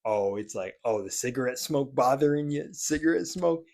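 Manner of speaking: mock them teasing. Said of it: "joked upon or made fun of".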